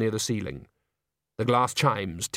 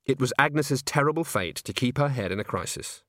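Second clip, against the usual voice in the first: ordinary delivery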